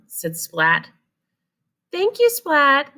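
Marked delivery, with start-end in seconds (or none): 1.9-2.9 high, slow motherly thanks; mom voice. Acted. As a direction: thank him patiently. Mom voice in story.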